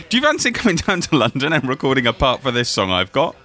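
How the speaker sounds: Southern English accent, playing a famous singer. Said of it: "I've got that Southern accent".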